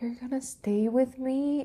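put-on very high little girl voice. Retelling a scary moment, the speaker talks to him in a little girl voice. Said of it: "I was speaking like a little girl".

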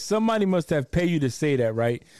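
ordinary talk

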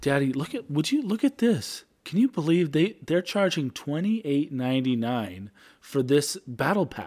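put-on child's voice, persuasive, selling sales-pitch tone. Retelling how the daughter started selling him on a purchase: imitating Viv's sales pitch. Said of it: "She's like".

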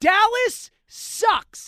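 all-out emphasis, very loud and high. Telling Kenny his view of Dallas, said with maximum emphasis. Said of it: "let me just say this with as much emphasis as I can say it".

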